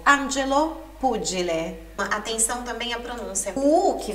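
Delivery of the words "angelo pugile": "Angelo" e "pugile" com o G de djê; G explosivo. Shown as a demonstration. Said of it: "G e G I tem um som explosivo". (G como djê em "Angelo" e "pugile")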